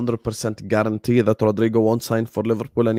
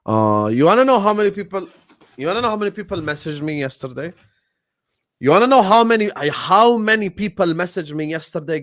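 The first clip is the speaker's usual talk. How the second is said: exasperated rant; 4 semitones higher, 4 dB louder than usual. Real, not acted. Incredulous rant to chat.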